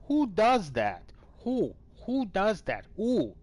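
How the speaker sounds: high, hooting owl calls. Shown as a demonstration. Vlogger hooting at the news like an owl. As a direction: hoot it like an owl. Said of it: "I sound like a freaking owl".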